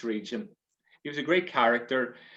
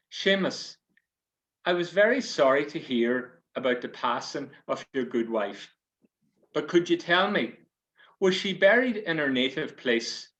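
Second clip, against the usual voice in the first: parish priest; 3 semitones higher, 3 dB louder than usual. Acted. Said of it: "says the priest".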